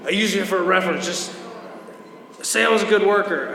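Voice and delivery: mildly acted panicked plea; retold panic. Boo phones Dan for a reference, mock panic. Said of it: "He calls me up all panicked".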